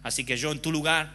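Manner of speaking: a lightly voiced sly tempter; Satan's voice. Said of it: "Satanás le dice". (voz baja y astuta de Satanás)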